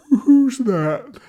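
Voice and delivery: high, loud startled call; startled boy. Acted. Jack woken by a tendril at the window, calling out startled. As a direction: jolt awake and call out.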